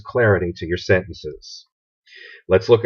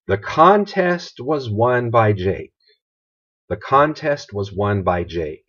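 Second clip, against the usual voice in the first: slow example read; slower than usual. Shown as a demonstration. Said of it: "now that's the passive voice".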